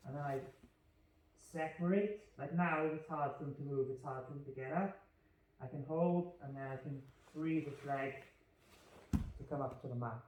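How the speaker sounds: muffled, talking into the floor; face down. Real, not acted. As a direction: speak face down into the mat. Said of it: "I was talking into the floor and the wall".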